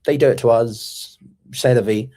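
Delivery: mock indifference, shrugging it off; shrugging Trump. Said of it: "Is Trump just gonna be like".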